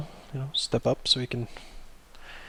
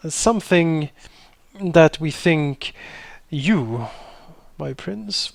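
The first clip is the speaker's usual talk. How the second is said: courtly wizard; 2 semitones higher than usual. Acted. Wizard courtly speech to prince.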